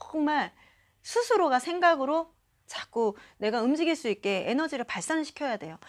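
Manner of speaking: ordinary talk, nothing marked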